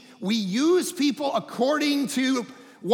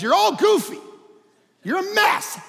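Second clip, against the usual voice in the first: God addressing us; 4 semitones higher than usual. Retold or imitated. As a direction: speak as God calling people out. Voicing God to people.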